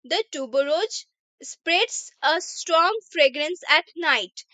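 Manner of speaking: slow, careful English read for learners; teacher reading an example sentence slowly; slow reading aloud. Shown as a demonstration. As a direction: read each word out slowly for the class.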